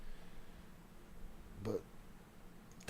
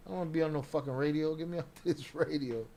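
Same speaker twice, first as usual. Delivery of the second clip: mock annoyed mumble; 5 dB quieter than usual. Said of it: "He sound like he pushed dude off".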